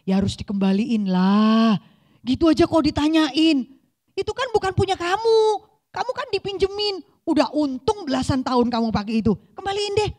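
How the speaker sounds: as a husband brushing off a silly question, impatient; husband scolding wife. Retold or imitated. Suaminya bilang apa?. (suami menegur istri dengan nada tinggi dan keras)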